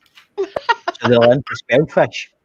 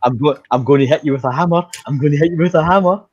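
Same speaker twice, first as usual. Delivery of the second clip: mock sweet threat; 2 semitones higher, faster than usual. Shown as a demonstration. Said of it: "He doesn't understand a damn thing you're saying".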